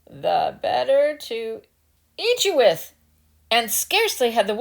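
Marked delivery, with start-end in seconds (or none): 0.1-2.9 spring the trap; pouncing wolf. Acted.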